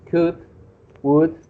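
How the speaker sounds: COULD and WOULD with no L sound; silent L. Shown as a demonstration. Teacher reminding the student, words said with silent L. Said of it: "you don't pronounce the L".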